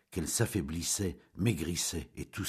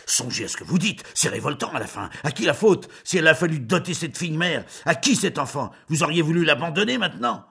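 much higher, much louder furious cry; angry shouting; 10 semitones higher, 9 dB louder than usual. Acted. The baron stamping and shouting at Julien, furious. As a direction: let the indignation burst out.

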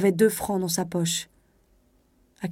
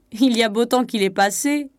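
gruff conductor; 4 semitones higher, 4 dB louder than usual. A narrator's reading. Voices the rude conductor.

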